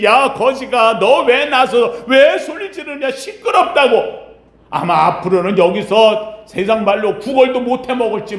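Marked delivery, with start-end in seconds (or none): 0.0-4.0 lightly voiced crowd scolding the beggar; scolding bystanders. Annoyed bystanders telling the blind beggar off, scolding. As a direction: scold him, drawing out the complaint a little. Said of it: "주변에 수많은 사람들이".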